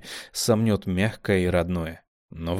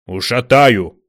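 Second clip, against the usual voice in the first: louder threat; 3 semitones higher, 10 dB louder, slower than usual. A narrator's reading. Kamila threatening, louder. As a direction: snarl a threat.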